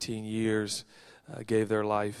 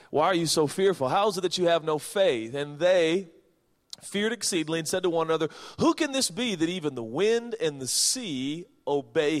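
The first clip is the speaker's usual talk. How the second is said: scripture reading; 6 semitones higher, 5 dB louder than usual. Acted. Rereads scripture with more force.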